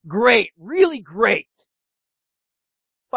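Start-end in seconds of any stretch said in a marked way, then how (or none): 0.1-1.5 slow, deadpan great that means the opposite; sarcastic. Shown as a demonstration. Preacher showing sarcastic tone to a friend's greeting, deadpan. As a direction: say it like a bad day. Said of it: "I was being sarcastic".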